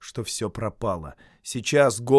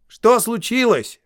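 higher, louder call into the dark; 11 semitones higher, 9 dB louder, slower than usual. Acted. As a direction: call across the water. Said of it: "окликнул его Бильбо".

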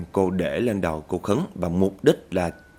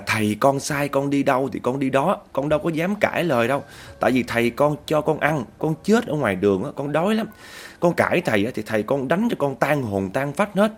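crying ghost; 6 semitones higher than usual. Acted. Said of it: "nó bắt đầu nó khóc".

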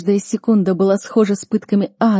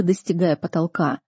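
ordinary delivery

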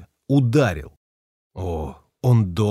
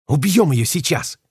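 a touch louder eager blurt; 5 semitones higher, 3 dB louder than usual. A narrator's reading. Bait blurting that they kill her now. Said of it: "выпалил Бейт".

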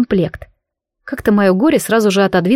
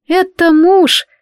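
slow, high and loud, each word stressed; heated outburst; 9 semitones higher, 4 dB louder, much slower than usual. A narrator's reading. Black witch indignantly correcting her friends, heated and slow. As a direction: snap it out in exasperation. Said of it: "в сердцах высказалась чёрная ведьма".

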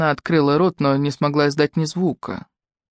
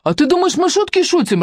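higher, louder angry retort; 13 semitones higher, 3 dB louder than usual. A narrator's reading. Irka angrily confronts the young man, higher and louder. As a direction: snap at him. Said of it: "разозлилась Ирка".

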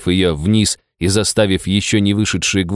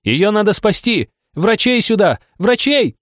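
full-throated shout; 12 semitones higher than usual. Acted. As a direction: bellow for help at the top of your lungs. Narrator keeps yelling for doctors.

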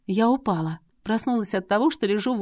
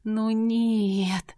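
disappointed groan; 4 semitones higher than usual. A narrator's reading. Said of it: "простонала разочарованно".

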